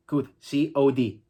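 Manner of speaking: could said kud, the O and L swallowed. Shown as a demonstration. Teacher drills could then spells it. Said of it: "La O y la L me la como".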